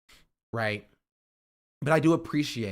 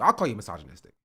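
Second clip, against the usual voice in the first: defiant retort rising to a shout; 3 semitones higher, 4 dB louder, faster than usual. Retold or imitated. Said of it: "I was like".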